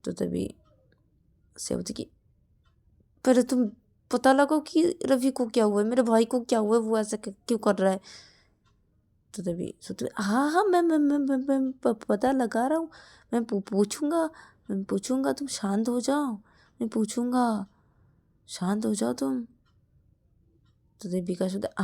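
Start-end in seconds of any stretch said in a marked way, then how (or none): 3.2-8.0 louder, higher scolding; angry demand. Acted. Shreya demands Shruti find out about her brother, angry and louder. 10.2-19.5 higher, stammering reassurance; flustered stammer. Acted. Shruti, flustered, stammers to calm angry Shreya.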